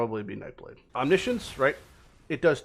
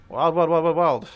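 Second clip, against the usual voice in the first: excited; 5 semitones higher, 8 dB louder than usual. Real, not acted. Repeats word in disbelief.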